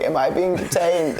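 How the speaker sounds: a hint of a frail old lady. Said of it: "in an old lady voice".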